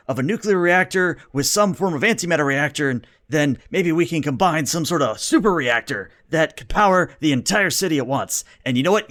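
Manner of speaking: a lightly voiced billionaire pitching his idea. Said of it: "the first one you hear is like".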